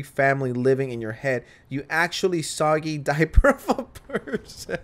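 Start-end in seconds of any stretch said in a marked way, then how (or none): 1.7-4.9 reading the insult while cracking up; can't get through it without laughing. Real, not acted. Commentator reads a viewer's insult, laughing through it. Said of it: "I'm stealing this".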